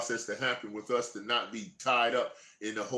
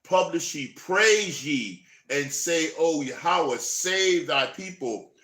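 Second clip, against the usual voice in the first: fervent scripture proclamation; slower than usual. Acted. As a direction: build up like a pulpit cry.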